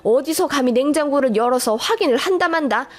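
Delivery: lightly voiced scolding mother-in-law; a touch of affronted scolding; indignant mother-in-law. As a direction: put the daughter-in-law in her place, mildly acted.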